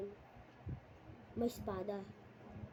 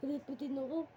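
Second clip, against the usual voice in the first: mock angry voice; 3 semitones higher than usual. Kid showing his angry voice to viewers, mock angry. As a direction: sound grumpy on purpose. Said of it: "Parang ganun yung boses ko eh".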